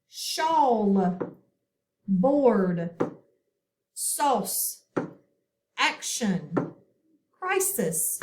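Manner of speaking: each word said alone, clearly, for the class to echo; teacher models each word, pausing for the echo; model words to repeat. Shown as a demonstration. Phonics teacher models each word for the class to repeat. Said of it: "if you will repeat after me".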